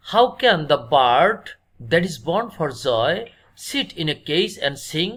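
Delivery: slow, measured reading of verse; deliberate classroom poem reading; poem recitation. Acted. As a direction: read the line out slowly, phrase by phrase. Quotes the poem line aloud.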